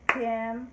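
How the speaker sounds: September said in three clapped beats, Sep-tem-ber; clapped syllables. Shown as a demonstration. Teacher claps September for the class. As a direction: clap out each part of September. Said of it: "Let's try that again".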